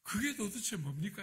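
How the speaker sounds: remonstrate with God, building in pitch; bitter prayer. Retold or imitated. Pastor protesting the wrecked car to God, bitter. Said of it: "또 비통하게 기도했어요".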